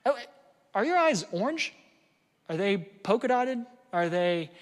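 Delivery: high, teasing, playful questions; playful joking. Shown as a demonstration. Parent joking with a child in a hard moment, high playful teasing. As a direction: tease the child gently with silly questions. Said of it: "you can even joke with your child".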